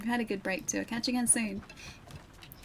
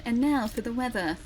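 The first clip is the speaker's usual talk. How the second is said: newsreader voice. Shown as a demonstration. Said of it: "read like a newsreader".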